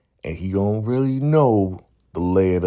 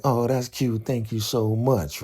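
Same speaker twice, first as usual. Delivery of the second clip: higher, slowed imitation of a touched thank-you; sweetly grateful; 7 semitones higher than usual. Keisha thanking Nuck for her card, sweetly grateful. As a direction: coo thanks in a raised voice.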